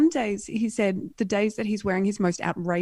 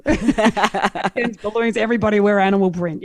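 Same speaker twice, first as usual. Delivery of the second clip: laughing excitedly; 7 dB louder than usual. Real, not acted. Telling a friend about the animal-print party, laughing and loud. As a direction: laugh through it, thrilled.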